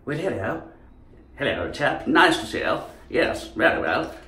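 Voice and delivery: put-on light old-fashioned English greeting voice; old English accent. Chap greeting an acquaintance, old English accent. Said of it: "the old English as well".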